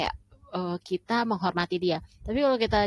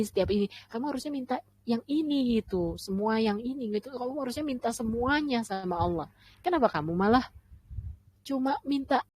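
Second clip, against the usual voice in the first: higher, fast, pushy listing of demands; demanding list; 3 semitones higher than usual. Retold or imitated. Israelites ordering Musa to ask for every food, pushy and higher. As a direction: rattle off the demands like an entitled customer. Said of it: "Abis itu ngelis lagi gitu loh".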